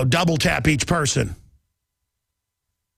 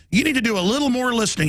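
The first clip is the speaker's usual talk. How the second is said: mocking quote; 6 semitones higher, faster than usual. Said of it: "he said in a speech yesterday".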